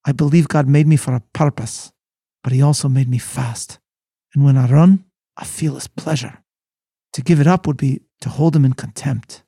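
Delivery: a light hint of a Scottish accent, read earnestly; lightly voiced Scottish runner with a trace of Scottish accent. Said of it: "I'll do it in my much celebrated Scottish accent".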